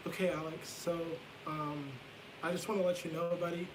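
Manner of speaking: softly quoting mom's low, tender words; talking very low. Retold or imitated. Mom kneels to tell her little child she loves them, talking very low. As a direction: keep it low and close, like mom. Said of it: "she was talking very low".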